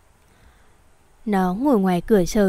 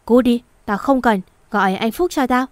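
sharp-tongued; 2 semitones higher, 3 dB louder than usual. Acted. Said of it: "giọng điệu chua ngoa lắm".

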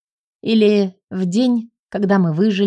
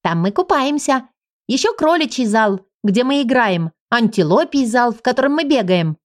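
put-on eager little girl; 3 semitones higher than usual. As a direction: show off the halls like a proud child. Girl continues explaining.

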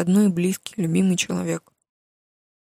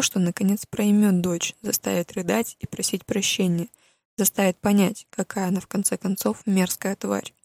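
usual speaking voice

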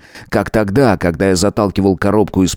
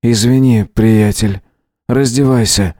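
cold command; 4 semitones higher than usual. A narrator's reading. Howard orders guest to undress.

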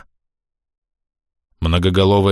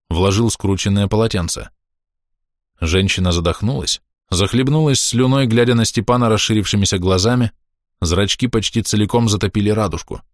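ordinary delivery, nothing marked

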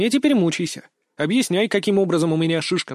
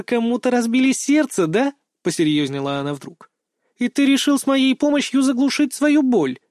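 put-on higher girl voice, playfully shocked; mock-flustered girl; 6 semitones higher than usual. A narrator's reading. Girl reacting to date invitation, mock surprise. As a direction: fake coyness, then turn probing.

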